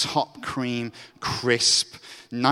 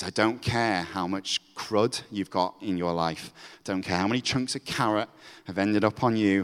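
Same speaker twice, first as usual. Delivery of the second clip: tender divine voice; 3 semitones lower than usual. Acted. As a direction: speak love over them gently. God's voice to the listener.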